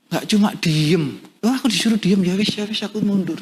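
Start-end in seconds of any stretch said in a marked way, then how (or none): 1.4-3.4 higher-pitched, resigned backing off; meek retreat. Acted. Acted giving up when silenced.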